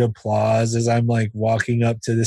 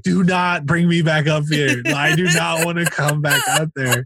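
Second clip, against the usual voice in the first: urgent protest; 5 semitones higher than usual. Retold or imitated. Pleading from side of stage.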